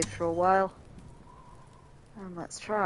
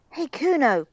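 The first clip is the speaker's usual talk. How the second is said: raised, higher call for attention; 8 semitones higher, 7 dB louder than usual. Acted. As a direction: call over to a kid, louder and higher. Reads out calling to Kuno.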